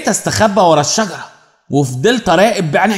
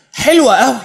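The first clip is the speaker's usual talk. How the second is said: eager repeat; 6 semitones higher than usual. A narrator's reading. Boy gushing to Abla Naima, eager and higher. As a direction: push حلوة up with breathless eagerness. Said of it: "وقلت لها بلهفة".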